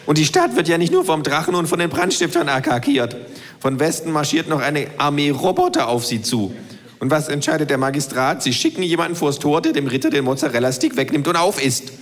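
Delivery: the know-it-all kangaroo lecturing. Acted. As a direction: voice the kangaroo, lightly. Kangaroo continues the parable.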